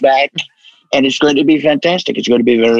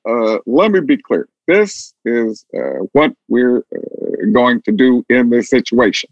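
lightly voiced Obama, measured and halting; a hint of Obama's slow deliberate pauses; Obama impression; 4 semitones lower than usual. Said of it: "So Barack Obama say".

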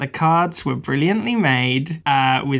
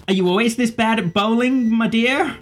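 put-on higher, silky older woman; suited woman; 6 semitones higher than usual. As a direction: purr it like a sly lady.

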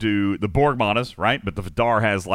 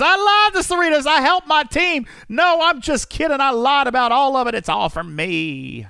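loud, very high-pitched mimicry; hammed-up high gushing impression, easing off at the end; mock Trader gushing; 4 dB louder than usual. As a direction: put on a squealing voice to tease a teammate. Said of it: "Trader's over here singing and praises Cerritos".

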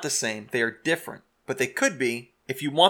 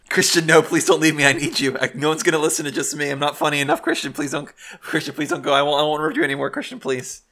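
hammed-up pleading, louder; begging an ex back; 2 semitones higher, 4 dB louder than usual. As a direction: beg him not to go. Jokingly begs him to stay.

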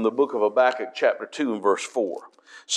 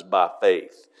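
"by faith" pointed and lower; stress on by faith; 4 semitones lower than usual. Shown as a demonstration. Preacher showing Galatians' emphasis, stressing "by faith". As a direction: land hard on "by faith". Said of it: "it emphasizes".

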